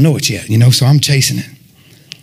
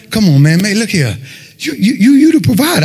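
insistent appeal, rising much higher; retold plea to God; 5 semitones higher than usual. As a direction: plead upward with God, stammering on "you". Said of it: "I started talking to him".

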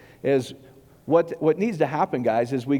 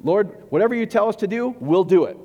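higher, louder hammed-up pledge of obedience; mocking Israelites' vow; 6 semitones higher, 4 dB louder than usual. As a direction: parody an eager crowd swearing to obey. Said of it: "the Israelites at Mount Sinai".

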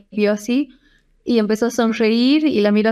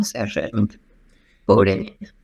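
near tears; 13 semitones lower, slower than usual. Real, not acted. Recalling crying after consult.

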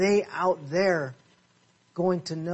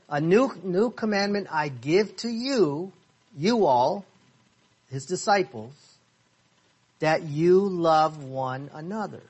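slow reading. Shown as a demonstration. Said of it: "I'll say it slowly again".

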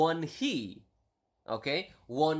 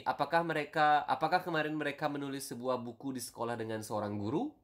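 quick natural read of the question; fluent everyday Indonesian pace; normal speed; faster than usual. Shown as a demonstration. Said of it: "the normal version would be".

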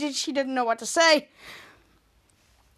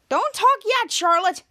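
cutting off; 5 semitones higher, 4 dB louder, slower than usual. Retold or imitated. Teacher cutting in.

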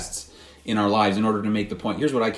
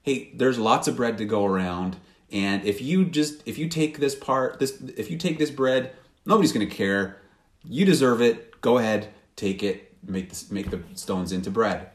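tempting voice; 2 semitones lower than usual. Retold or imitated. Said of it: "maybe it's".

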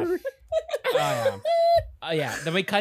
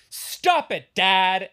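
mock yell; 3 semitones higher, 5 dB louder, much slower than usual. Veronica voiced yelling.

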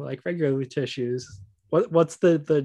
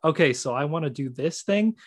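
a hint of a put-on character voice, a touch louder at the end; 3 dB louder than usual. Player's in-game talk imitated, lightly voiced character. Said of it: "talking like this to".

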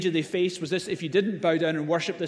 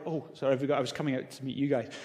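mock distracted apology; 3 semitones lower, 4 dB quieter, faster than usual. Distracted Jesus voiced.

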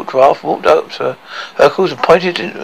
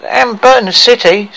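higher, louder gleeful cry; eager dwarf shout; 8 semitones higher, 5 dB louder than usual. Acted. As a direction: shout it with greedy glee.

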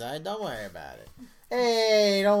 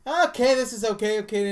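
put-on high excited child voice, louder; imitating a little kid; 7 semitones higher, 9 dB louder than usual. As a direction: play the hopeful little boy watching the movie. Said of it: "face goes from".

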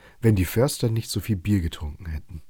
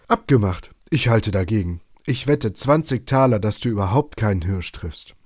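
louder, jumping in to take the bet; a loud, eager acceptance; calling out; 4 dB louder than usual. Acted. Forester leaps up to accept Robin's bet, calling out loud. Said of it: "sprang auf und rief".

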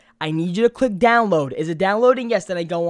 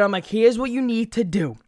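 telemarketer voice. Retold or imitated. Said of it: "now I'm sounding like a telemarketer".

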